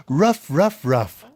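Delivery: playful puppy barking; little dog barks. Acted. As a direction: yap like a small dog. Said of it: "and little dogs go".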